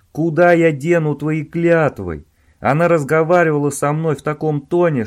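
loud, exasperated rant; heated scolding. Acted. Owen warning Robin about Sheila, heated and loud. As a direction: scold him, worked up.

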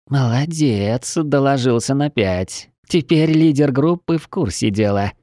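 put-on slow, sneering praise from lizard girl; mock him with fake praise; snide mocking. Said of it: "ехидно подхватила чешуйка".

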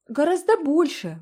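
high eager exclaim. A narrator's reading. Girl eagerly echoing her brother to Anne. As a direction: chime in, all eager. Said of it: "воскликнула Джеральдина".

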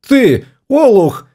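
slow, high-pitched indignant call; crying out angrily. A narrator's reading. Wife bursting in on her husband, crying out indignantly. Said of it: "крикнула она".

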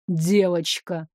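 девочка low, slow and heavy; thundering voice. Acted. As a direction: drag out девочка low and menacing. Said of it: "прогрохотал голос".

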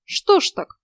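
high-pitched, put-on sympathy; feigned sympathy. A narrator's reading. Heroine asks about the princess, falsely sympathetic. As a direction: draw it out with fake concern. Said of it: "с напускным сочувствием протянула я".

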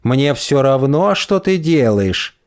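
slow prissy mimicry; mincing mocking voice. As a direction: parrot her words slowly and mincingly. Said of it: "жеманным голосом передразнивает он".

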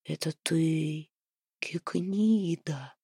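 deep, slow, echoing moon queen voice; low booming voice. A narrator's reading. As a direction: speak low and hollow, like from the sky. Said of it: "низким гулким голосом сказала Луна-княгиня".

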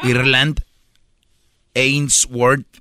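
name said through laughter, slow; laughing. Shown as a demonstration. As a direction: laugh while saying Ireland Ainsworth. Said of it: "les voy a decir otra vez el nombre".

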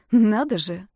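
usual speaking voice

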